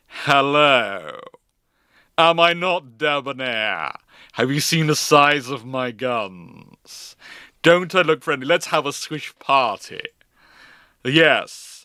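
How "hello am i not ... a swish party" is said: suave, showy voice, slow on the gun boast; a posh armored cruiser flexing politely; debonair armored cruiser. Retold or imitated. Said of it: "an armored cruiser turns up and goes".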